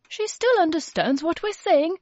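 put-on a kindly grandmother correcting the boy; grandma defending the baby, lightly voiced; Grandma's voice. A narrator's reading. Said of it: "said Grandma".

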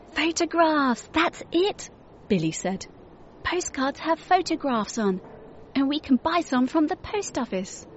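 put-on a kid struck by a clever idea; young boy Billy. A narrator's reading.

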